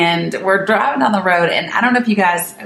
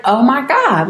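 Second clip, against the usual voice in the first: higher shocked exclamation; blurting out disbelief; 6 semitones higher than usual. Retold or imitated. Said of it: "And I was like".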